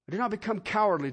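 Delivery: fast rush through it again; quick repeat. Shown as a demonstration. Preacher quickly repeating the line to the congregation. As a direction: rattle it off. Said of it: "repeated line".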